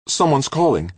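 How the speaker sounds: high, alarmed call; sudden worry at an incoming call. A narrator's reading. Halleck hearing the radio ping, alarmed. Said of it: "sounding alarmed".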